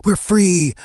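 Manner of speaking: high-pitched triumphant cry; storyteller's exultant exclamation; narrated villain glee. A narrator's reading. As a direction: crow it up high like a gleeful villain. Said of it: "Josh laughs like a villain".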